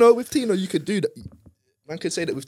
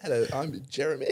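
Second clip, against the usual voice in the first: customer service voice; 4 dB quieter than usual. Pretend. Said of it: "You should hear my work voice".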